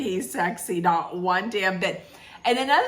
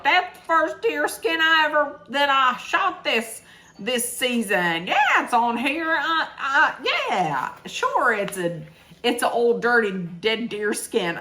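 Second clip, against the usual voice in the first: mock Steve voice; 4 semitones higher than usual. Imitating Steve showing off deer skin.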